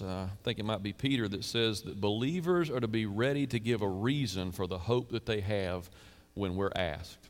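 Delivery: ordinary talk, nothing marked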